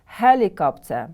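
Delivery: Helicopter with HEL stressed, pitch falling after; stress on first syllable. Shown as a demonstration. Teacher modelling a new word for pupils, first-syllable stress. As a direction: hit the first syllable of "Helicopter", let the rest fall. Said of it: "The stress is on the first syllable".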